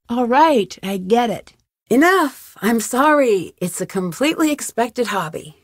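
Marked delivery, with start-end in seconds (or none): 1.9-2.6 higher, exclaimed protest; firm cutoff. Acted. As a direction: call a halt with a raised pitch. Cutting off the other's talk.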